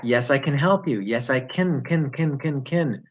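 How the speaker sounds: "can" weakened to "kin"; reduced CAN. Shown as a demonstration. Teacher showing it changes back, reduced CAN. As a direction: say "can" lightly, vowel shrunk. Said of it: "it changes back".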